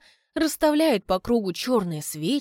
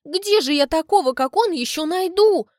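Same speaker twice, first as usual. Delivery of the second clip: tearful; 9 semitones higher, 6 dB louder than usual. Acted. Albina keeps crying.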